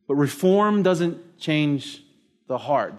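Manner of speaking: reform stretched out very slowly, heart falling; preacher slowing to land the point; slow refrain. Shown as a demonstration. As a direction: drag out reform doesn't change, drop on the heart.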